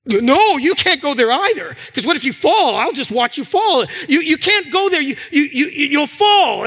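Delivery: anxious dad's retold objection; retold panic. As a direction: stammer out a panicked warning, replaying it. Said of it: "I start to panic, I start to sweat".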